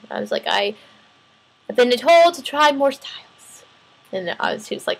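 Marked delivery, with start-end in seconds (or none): 0.5-3.6 slow, drawn-out, raised protest; exasperated and stretched out, pitched up; pointed exasperation. Retold or imitated. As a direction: spell it out slowly, fed up. Retold frustrated reply about teaching styles.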